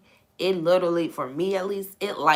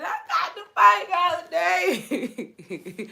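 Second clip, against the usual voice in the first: slow and higher, drawn out; retold own words; 13 semitones higher, much slower than usual. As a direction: stretch out her misheard line. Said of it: "'Cause I said".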